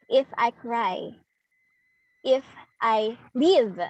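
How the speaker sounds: "If I cry, if I live" slowly, landing on CRY and LIVE; anapest stress pattern. Shown as a demonstration. Teacher reading phrases to show anapest, unstressed, unstressed, stressed. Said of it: "it will be like this".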